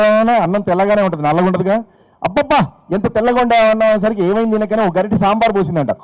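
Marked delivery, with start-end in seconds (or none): 2.2-3.9 higher mock rapture over rice; husband overdoing praise to his wife; gushing praise. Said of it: "ఎలా అభినందిస్తున్నాడు చూడండి".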